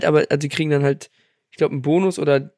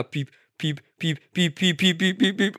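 scanner beeps speeding up; 3 semitones higher, 4 dB quieter, slower than usual. Retold or imitated. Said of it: "der Kassierer wird auf einmal immer schneller".

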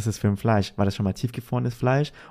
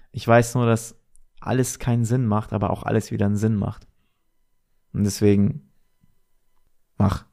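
stoned. Real, not acted. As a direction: ramble like you're high. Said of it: "Digga, ich bin so high".

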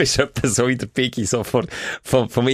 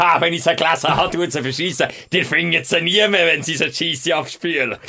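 Trump; 4 semitones higher than usual. Retold or imitated. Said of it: "So, à la".

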